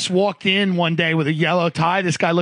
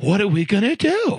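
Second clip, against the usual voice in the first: lightly imitated Italian-American rhetorical question; Italian guy accent. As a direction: put on a hint of the Italian guy. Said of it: "he talked like this, Italian guy".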